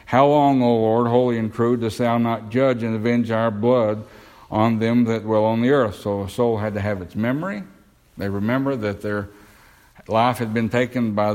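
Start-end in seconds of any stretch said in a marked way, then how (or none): 0.1-5.9 raised-voice scripture quote, loudest at the start; quoting a loud cry to God; crying out loudly. Retold or imitated. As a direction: call it out like pleading souls, moderately loud. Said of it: "They cried with a loud voice".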